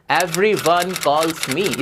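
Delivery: stretched very slowly, each word apart; slow model phrase. Shown as a demonstration. Teacher modelling a new phrase for students, very slow. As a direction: draw the phrase out for the class. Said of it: "आप बोल सकते हो".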